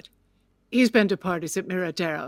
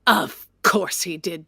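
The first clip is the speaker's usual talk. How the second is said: slow, cracking tearful bitterness; slower than usual. Acted. Widow near tears over the dress he bought. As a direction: let the voice break on it.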